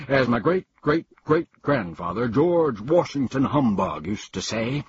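pompous humbug. Acted. Humbug advising Milo not to bother spelling, pompous. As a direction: lecture the boy grandly.

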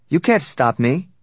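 high, loud, slow retort; snapping. A narrator's reading. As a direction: snap back in defiance. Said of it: "she snapped".

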